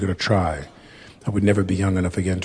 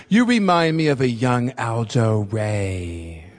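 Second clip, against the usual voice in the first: imitating Fred; 2 semitones higher, slower than usual. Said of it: "'Cause my voice is kind of raspy".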